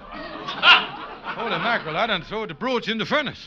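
horrified realization, loud; shocked. Acted. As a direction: blurt it out in panic. Kingfish realizes his blunder.

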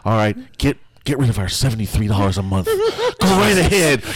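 hammy offended whiner; mock the complainers, shrill and fast; mocking outraged critic. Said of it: "Oh, it's like".

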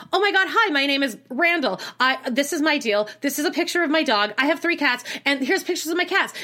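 hammed-up gushing guy; mock eager guy. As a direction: imitate an overeager texter gushing about his cats. Mocking eager Randall's reply.

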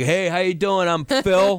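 hammed-up Long Island regular guy; Long Island accent. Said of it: "And then one guy's like".

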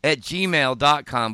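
slow, careful toothless speech; spelling it out without front teeth; missing front teeth. Real, not acted. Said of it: "that was hard to say without teeth".

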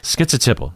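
"Schizotypal" short with T, tip; echoing fast T. Shown as a demonstration. Teacher echoing a doctor's quick version. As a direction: echo "Schizotypal" with skit and tip. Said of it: "he's saying it real fast".

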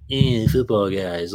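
slow, mocking echo with a dragged-out eh; mock dismissive repeat; scornful girlfriend. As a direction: imitate her disdain, drawing it out. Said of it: "and she's like".

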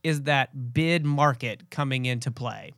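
slightly blocked nose from a cold; stuffy nose. Real, not acted. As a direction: talk with a stuffy, congested nose. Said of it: "if I sound a little stuffy".

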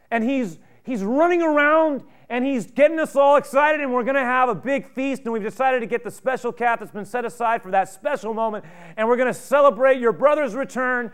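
loud, high, breathless rush of good news; excited servant. Acted. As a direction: burst out with the news, barely containing joy. Servant breaks joyful news.

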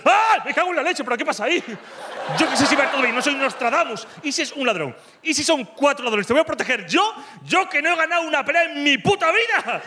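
high, frantic panicking thoughts; panicked inner voice. Retold or imitated. Boyfriend's secret panic while calming girlfriend, high and frantic. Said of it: "lo que estamos pensando es".

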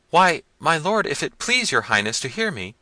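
high, loud helpless wail; frightened servants. A narrator's reading. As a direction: answer your master high and flustered. Poor fellow pleads.

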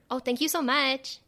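"so much" lifted as if asking; lilting thanks, "much" turned upward; question-like ending. Shown as a demonstration. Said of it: "almost making it a question".

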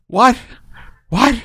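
the wife gasping at the news; stunned disbelief. Retold or imitated. Wife hearing the big news.

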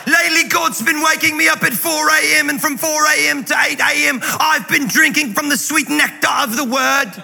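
mock a preacher like a pirate; pirate-like impersonation. Pastor impersonates guest preacher Christine Kane in pirate voice. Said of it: "my Christine Kane impersonation sounds like a pirate".

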